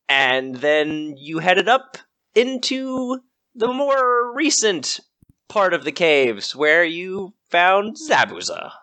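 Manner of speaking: slow, suspenseful story recap; old radio drama narrator. Acted. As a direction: draw out each step slowly. Game master slows for suspense.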